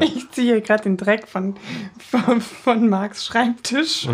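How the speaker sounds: giggling helplessly through the words; words broken up by laughter; hysterical laugh. Real, not acted. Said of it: "hör auf zu lachen". (hysterisch lachend)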